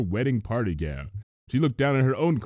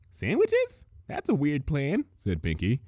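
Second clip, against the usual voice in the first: puzzled; 5 semitones higher than usual. Acted. Puzzled question.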